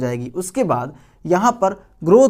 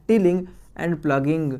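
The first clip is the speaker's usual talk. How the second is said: slow term; much slower than usual. Shown as a demonstration. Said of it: "term given slowly".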